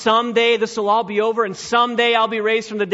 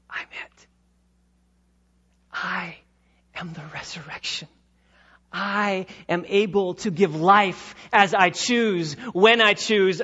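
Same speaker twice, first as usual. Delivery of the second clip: voicing Jesus. Preacher voicing Jesus to Martha, hushed then firm.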